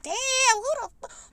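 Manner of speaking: mock shocked whisper-gasp. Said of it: "They was like".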